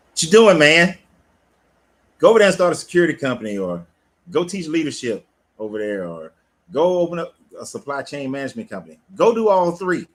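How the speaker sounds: high and loud, get on him like a big brother; hammed-up call-out to a slacking friend; mock scolding shout. Friend scolding Dark Green to go build businesses, mock loud shout.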